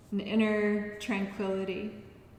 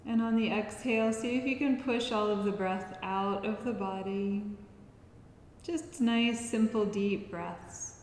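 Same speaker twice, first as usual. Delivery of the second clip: guided relaxation. Acted. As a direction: guide them unhurriedly through each breath. Leads breathing practice.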